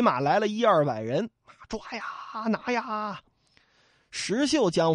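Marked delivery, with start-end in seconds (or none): 1.7-3.2 soft, far-off cries of a crowd; distant shouting. Acted. Hunting mob calling out in the night, distant shouts. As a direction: call from a long way off.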